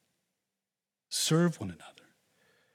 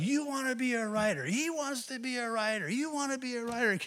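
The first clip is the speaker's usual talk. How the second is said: higher-pitched hammed-up mock yell; 10 semitones higher than usual. Preacher retelling a man yelling at a boy, a mock yell. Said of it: "He starts yelling".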